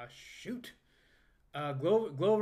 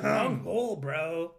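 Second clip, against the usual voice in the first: laughing; 8 dB louder, slower than usual. Real, not acted. Laughing at friend's choking.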